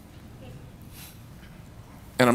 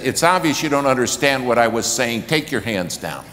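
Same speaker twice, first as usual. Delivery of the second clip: scolding the crowd for misunderstanding; flustered raised voice; 3 semitones higher, 5 dB louder than usual. Retold or imitated. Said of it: "The hands scared him".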